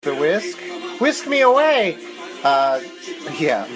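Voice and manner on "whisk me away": high, loud theatrical cry; playful exclamation. Pretend. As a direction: sweep it out like a romance line. Playful pun on the whisk.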